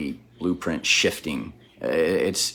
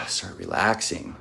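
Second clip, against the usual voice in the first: relieved sigh; 6 dB quieter than usual. Real, not acted. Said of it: "my body can actually chill".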